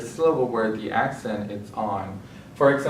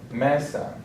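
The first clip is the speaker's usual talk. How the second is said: Mesa stressed on ME; ME-sa, lean on the first syllable; penultimate stress; 3 semitones higher than usual. Shown as a demonstration. Teacher repeating examples after the rule, penultimate stress. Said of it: "stress on the second to last syllable".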